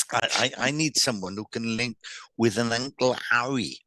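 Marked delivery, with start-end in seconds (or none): 2.7-3.8 Cockney HARRY said without its H; Cockney dropped H. Retold or imitated. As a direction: drop the H on Harry, Cockney-style. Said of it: "they drop the H's".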